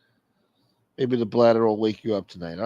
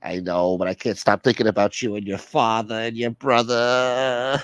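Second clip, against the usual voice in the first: whiny caller, self-pitying. Acted. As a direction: drag out the complaint as if about to cry. Plays the obsessed whiny caller.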